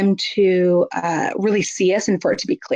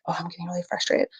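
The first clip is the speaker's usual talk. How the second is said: noticing aloud; 9 dB quieter, faster than usual. Shown as a demonstration. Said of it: "pay attention, like".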